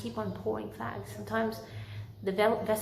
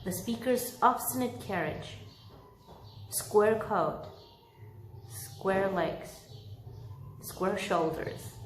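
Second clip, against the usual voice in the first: story narration. A narrator's reading. Reads Dickens chapter aloud.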